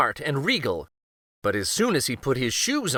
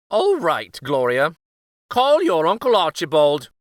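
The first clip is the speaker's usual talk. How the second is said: higher, louder grudging order; resigned king; 4 semitones higher, 6 dB louder than usual. Acted. King to the cook, grudging command. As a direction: give in, grumbling. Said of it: "said the king".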